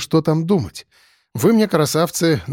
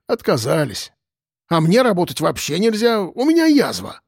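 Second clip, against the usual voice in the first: put-on higher, rambling drunk voices; lightly voiced boozers; 4 semitones higher than usual. The drunks tell the cop about the job offer, rambling. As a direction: tell it like a lazy old drinker.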